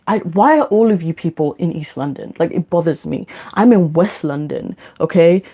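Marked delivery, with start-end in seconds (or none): 0.1-2.3 mock annoyed rant. Real, not acted. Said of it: "I'm angry".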